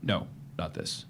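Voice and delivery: breathless whisper, slow. Acted. Frightened prisoner whispering to his interrogator. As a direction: barely voice it, shrinking away. Prisoner answers quietly under threat.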